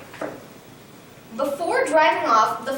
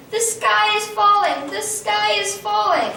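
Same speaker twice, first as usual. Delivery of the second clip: screaming in panic; 7 semitones higher than usual. A narrator's reading.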